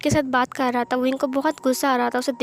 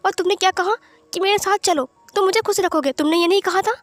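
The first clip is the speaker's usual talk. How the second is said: Wing confronts Wen Chao in front of everyone, higher and indignant; angry confrontation; 5 semitones higher than usual. Acted. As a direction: throw his words back at him. Confronts accuser in quarrel.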